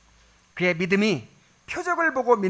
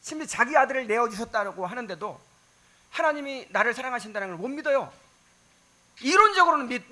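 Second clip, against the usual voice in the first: normal talking voice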